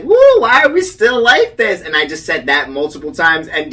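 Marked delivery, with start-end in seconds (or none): 0.0-1.8 high, loud anxious cry; stuck on the ride, crying out in a panic; mock panic. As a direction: squeal it like you're stuck. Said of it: "I'm like".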